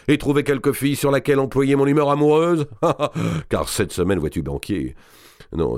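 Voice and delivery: lightly voiced brash nobleman, booming; hint of bawdy Count of Artois; boisterous giant lord. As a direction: play him coarse and swaggering. Robert d'Artois voiced by reader.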